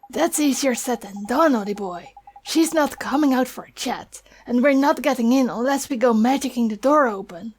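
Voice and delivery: chirpy Welsh fairy; Welsh accent. Acted. Welsh sidekick speaks.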